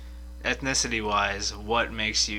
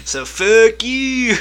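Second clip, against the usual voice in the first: laughing it out, much higher and louder; laughing retort; 11 semitones higher, 9 dB louder, much slower than usual. Real, not acted. To his friend after the ancestry joke, laughing. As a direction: blurt it through a burst of laughter.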